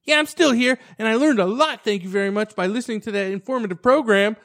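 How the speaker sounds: high-pitched, chirpy phone voice; imitated girl. Girl still holding after two hours, high earnest imitation. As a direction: mimic her earnest thanks on the line. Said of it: "pick up the phone and be like".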